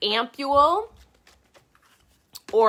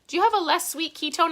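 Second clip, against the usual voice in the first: imitating a customer; 9 semitones higher than usual. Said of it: "those who are like".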